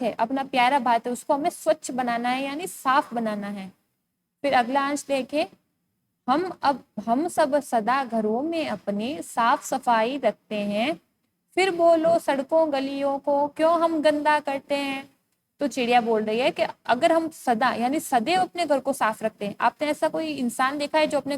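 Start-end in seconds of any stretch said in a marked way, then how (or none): 6.3-15.1 put-on slow, measured verse reading for children; poem recitation. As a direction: recite line by line with pauses between. Reads the poem aloud. (कविता पाठ)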